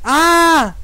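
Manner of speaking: high, sudden startled cry; startled yelp. Real, not acted. Player jumps at the horror game, startled yelp. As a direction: yelp at a jump scare.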